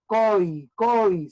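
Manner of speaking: "coi" as one firm beat, O dominant; diphthong in one beat. Shown as a demonstration. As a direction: isolate "coi", leaning hard on the O. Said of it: "Y la O suena más". ("coi" en un solo golpe, con la O más fuerte)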